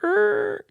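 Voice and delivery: high squealing engine rev imitation; revving engine. Man describing a wild car imitates its rev. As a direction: mimic a car revving hard. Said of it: "and revving up and just, like".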